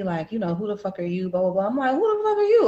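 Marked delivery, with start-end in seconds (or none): 0.5-1.3 softly sassy mock confrontation. Young mother at the door to a stranger, understated sass. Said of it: "you know, kinda sassy". 1.9-2.7 high-pitched incredulous comeback; indignant retort. Retold or imitated. Woman answering the young mother, high indignant retort. Firing the challenge straight back.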